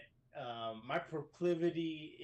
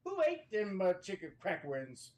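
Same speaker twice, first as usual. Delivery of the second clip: angry Southern yell; 7 semitones higher than usual. Retold or imitated. Team leader demanding who ate his cracklings, angry Southern shout. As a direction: yell it like an irate Southern sergeant. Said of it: "but he was so pissed".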